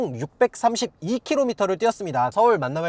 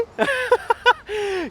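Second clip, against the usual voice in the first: giggle; 14 semitones higher than usual. Real, not acted. Laughs after teasing.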